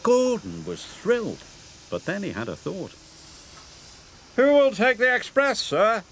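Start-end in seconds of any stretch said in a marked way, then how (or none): 4.4-6.0 high, eager big-engine question; asking. Acted. Gordon asks the Fat Controller, high and eager. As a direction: ask hopefully, pitched up. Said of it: "he asked".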